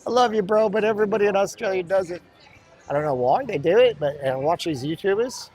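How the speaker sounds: put-on playful Aussie accent, sentences swooping up at the ends; exaggerated Australian uptalk. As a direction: ham up the Australian rising endings. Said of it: "they always go up at the end".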